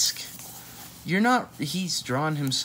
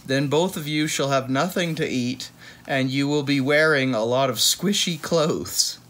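mock lecture; 2 semitones higher, 4 dB louder than usual. Mock lecture about food fights.

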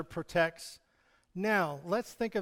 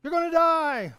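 angry threat; 10 semitones higher, 6 dB louder than usual. Acted. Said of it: "he, you know".

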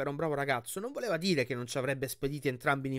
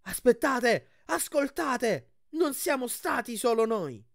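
high, loud, slow calls; loud address to a cheering crowd; shouting over the crowd; 9 semitones higher, 5 dB louder, slower than usual. Acted. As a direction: shout above the roar of the crowd. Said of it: "urlò più forte di tutti".

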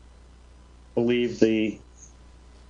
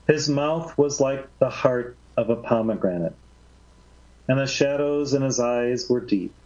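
story narration; 3 semitones higher than usual. A narrator's reading. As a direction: read the passage gently, like scripture. Reads second Gibran passage.

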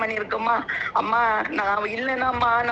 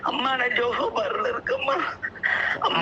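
tearful, words pushed through sobs; real tears on every amma; crying. Real, not acted. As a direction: caller weeping as she answers. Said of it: "அழாதீங்கம்மா".

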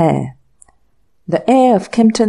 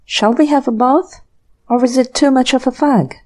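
languid murmur; 5 semitones higher than usual. A narrator's reading. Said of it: "murmured languidly".

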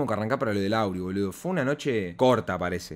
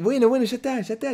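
laughing it off; 11 semitones higher, 4 dB louder than usual. Retold or imitated. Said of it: "le decía".

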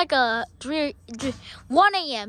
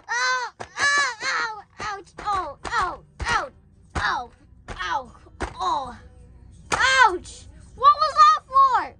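high, repeated yelps; play-acted pain; 4 semitones higher, slower than usual. Caught kidnapper being hit, high yelps of pain. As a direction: yelp as each blow lands.

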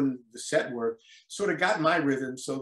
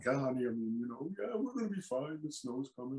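soft reassuring lie; 3 semitones higher, 8 dB quieter than usual. Retold or imitated. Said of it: "the implication was very strong".

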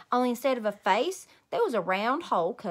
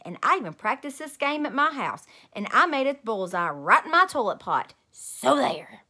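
defiant boast; 3 semitones higher, 5 dB louder than usual. Acted. Junie B. arguing with Jim.

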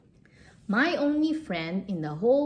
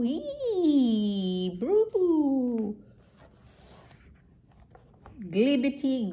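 silly sounds; slower than usual. Acted. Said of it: "make silly sounds like".

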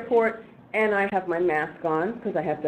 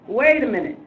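higher, louder as the idea lands; emphatic retold "wait a minute"; sudden realization; 4 semitones higher, 5 dB louder than usual. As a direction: catch on with a rising burst of resolve.

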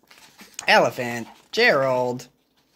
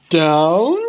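Gerald voice; 2 semitones lower, 4 dB louder than usual. Acted. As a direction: drop down for the elephant. Gerald echoes.

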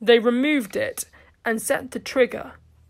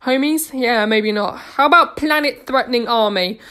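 hammy stage voice, loud and showy; overacting theatre actor; 2 semitones higher, 4 dB louder than usual. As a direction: play it big to the crowd. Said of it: "like an overacting theatre actor playing to a crowd".

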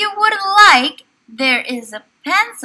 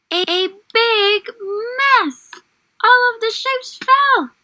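mock surprise; 6 semitones higher than usual. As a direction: play up the tumble with surprise. Story climax, shapes tumble.

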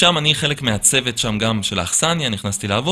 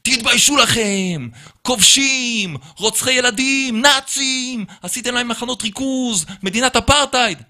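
much higher, slow ranting shout; imitated angry yelling; 12 semitones higher, slower than usual. Hostel boss yelling insults at the Israeli, high slow rant. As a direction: hammer each insult like a furious ranter. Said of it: "הוא מתחיל לצעוק עליי".

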